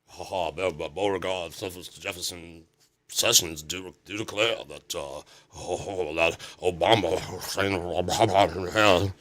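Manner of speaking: put-on soft, halting old Southern senator. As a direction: mumble like a doddering old politician. Doddering old senator impression.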